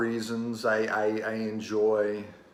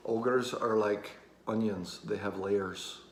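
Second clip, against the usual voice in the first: lightly put-on Scottish accent, slow start; amateur Scottish accent, unhurried at first; Shrek, Scottish accent; slower than usual. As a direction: attempt a Scottish lilt that drifts a little Irish. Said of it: "That's my best Scottish accent".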